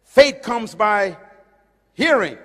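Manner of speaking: faith comes by hearing drawn out slow and loud; slow emphatic quote. Retold or imitated. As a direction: lean on each word of the verse. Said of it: "He said".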